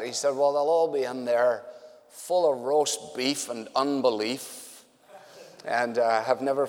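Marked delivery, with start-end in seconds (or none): 0.4-4.6 a light Irish brogue, slow on the punchline; imitating an old Irishman's brogue, drawn out; mild Irish lilt landing the joke. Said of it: "he says in his Irish brogue".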